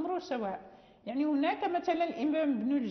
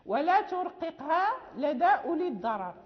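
recited verse; 3 dB louder than usual. Shown as a demonstration. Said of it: "فقال".

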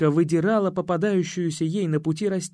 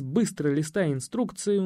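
ordinary delivery, nothing marked

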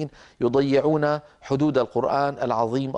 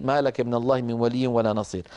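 recited phrase; 5 semitones lower than usual. Shown as a demonstration. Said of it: "وإلا لا يصح البدء به".

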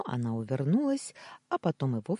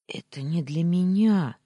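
loud, higher, mildly tearful plea; tearful protest; 4 semitones higher, 7 dB louder than usual. A narrator's reading. Wife pleading through tears with her husband, tearful. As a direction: protest with a touch of a sob. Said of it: "всхлипнула она".

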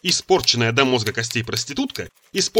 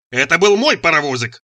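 put-on loud, higher childish protest; frantic yell; 4 semitones higher, 6 dB louder than usual. A narrator's reading. Son defends his toy train to mother, yelling. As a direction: howl it out, claiming what is yours. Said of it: "завопил я как резаный".

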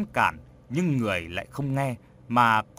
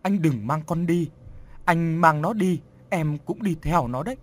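crying plea; 3 semitones higher than usual. Acted. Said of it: "Vợ anh Bình cũng khóc".

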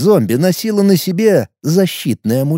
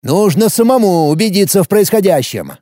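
shouting; 5 semitones higher than usual. Acted. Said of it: "крикнул начальник".

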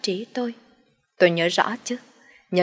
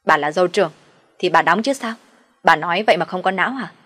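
indignant snap; 3 dB louder than usual. Acted. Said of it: "sừng cô lên nói".

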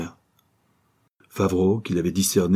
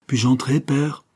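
higher-pitched, gently asking woman; gentle request; 6 semitones higher, slower than usual. A narrator's reading. Daughter asks from behind the door, gently. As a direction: ask politely, with a gentle lift. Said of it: "une voix féminine demandait doucement".

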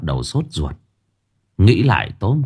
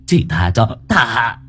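halting plea, cut short; desperate begging. Acted. Old man begs the ghost before being choked, desperate plea. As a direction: plead for mercy, breaking off abruptly.

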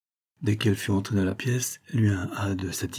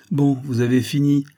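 impatient mutter; 6 semitones higher, 5 dB louder than usual. A narrator's reading. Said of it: "marmonna Nadine, impatientée".

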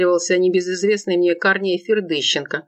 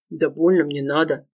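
hastily backpedaling; 2 semitones lower than usual. A narrator's reading. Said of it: "спохватился Корней".

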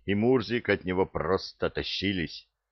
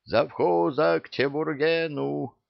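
calling out; 8 semitones higher than usual. Acted. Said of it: "понеслось по цепочке".

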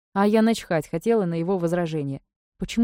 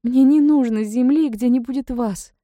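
much higher, louder, slow outburst; passionate; 7 semitones higher, 6 dB louder, slower than usual. A narrator's reading. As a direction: pour out her heart fervently. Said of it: "горячо проговорила".

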